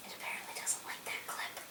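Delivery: unvoiced aside to the viewers; whispered aside. Real, not acted. Cohost whispering a joke about the failing clip. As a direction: whisper it as a quip. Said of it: "whispered aside".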